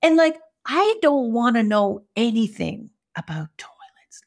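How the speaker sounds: slow whispered aside; hushed confession. Real, not acted. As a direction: breathe the words. Unvoiced aside.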